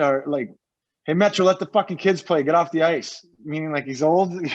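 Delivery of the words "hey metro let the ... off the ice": mild mock yell; retold heckling yell. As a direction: call it out like a heckler, only slightly raised. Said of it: "yells, he goes".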